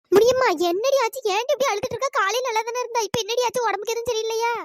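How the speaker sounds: high-pitched, anxious questions; concerned questioning. Acted. Friend asks why she is crying, concerned. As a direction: press her with worried questions, pitched high.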